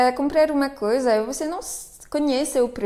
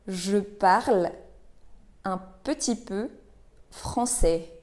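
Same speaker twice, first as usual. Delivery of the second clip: word by word; 3 dB quieter than usual. Shown as a demonstration. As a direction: pause after parle and after peu. Teacher models phrase word by word.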